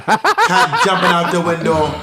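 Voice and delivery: light Caribbean accent, mock mom. Teasing friend as her mom, light Caribbean accent. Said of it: "That was not a Jamaican accent".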